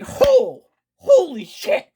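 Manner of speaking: high, loud, stunned exclamation; shocked outburst. Acted. Gamer reacting to an unexpected twist, shocked outburst. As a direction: blurt it out high, like a stunned player.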